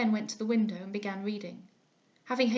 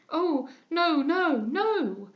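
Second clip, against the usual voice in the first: higher, louder protesting no; crying out; 5 semitones higher, 6 dB louder, much slower than usual. A narrator's reading. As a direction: cry out in protest. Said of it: "cried I".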